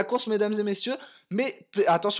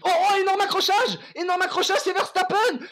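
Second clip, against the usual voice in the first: shouted, much higher and louder; shouted crash call; 10 semitones higher, 5 dB louder than usual. Real, not acted. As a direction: scream the crash live. Shocking crash shouted live. (annonce criée du crash)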